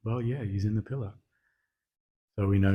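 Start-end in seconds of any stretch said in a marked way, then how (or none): 0.0-1.1 soft, matter-of-fact retold answer; reply softly as if it were obvious; mildly voiced, unworried child's answer; calm reply. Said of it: "Prahlad very calmly said".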